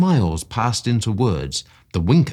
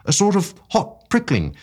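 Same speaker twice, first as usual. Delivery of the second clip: higher, alarmed exclamation; a startled cry of realisation; cried out; 9 semitones higher, 3 dB louder than usual. A narrator's reading. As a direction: friend exclaims as the drug wears off. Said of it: "he cried".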